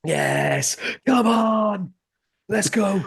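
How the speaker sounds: excited cheering. Real, not acted. Celebrating his co-host's win prediction with an excited whoop. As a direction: cheer the prediction like a fan in the stands. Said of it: "he has just morphed into, into Liam Roberts".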